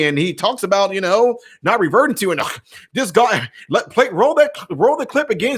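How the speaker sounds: hammed-up fake outrage over a clip; mock outraged critic.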